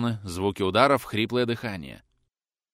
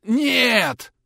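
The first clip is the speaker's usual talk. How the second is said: much higher, louder cry; shouted no; 14 semitones higher, 8 dB louder than usual. A narrator's reading. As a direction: cry out in horror. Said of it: "крикнул Чуев".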